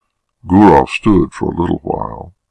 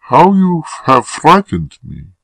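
high-pitched frightened woman; frightened, breathing hard; 10 semitones higher, 3 dB louder than usual. A narrator's reading. Woman to the lover who surprised her, frightened. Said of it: "breathing hard".

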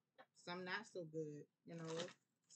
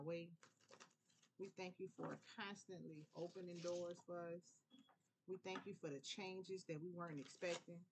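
prayer. Acted. Opening prayer of thanks.

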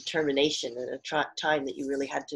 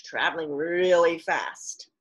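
whisper; slower than usual. Real, not acted. Whispered aside about the simile.

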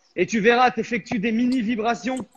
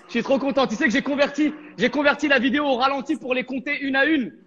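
laughing; 3 semitones higher than usual. Real, not acted. Laughs about his score.

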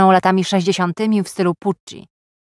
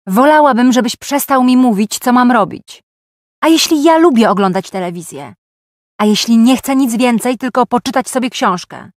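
higher-pitched, agitated protest; voice turning squeaky; 4 semitones higher, 3 dB louder than usual. A narrator's reading. Woman objecting to being told what to do, voice turning squeaky. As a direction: let the voice climb as you protest. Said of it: "Mój głos zrobił się piskliwy".

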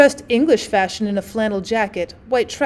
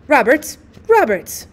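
louder calling across veranda; 3 semitones higher, 4 dB louder, slower than usual. Acted. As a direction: call his name to find him. Calling out for husband.

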